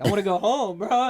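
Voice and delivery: giggling mid-sentence; laughing through words. Real, not acted. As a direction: let a laugh break the words. Laughing while retelling answer.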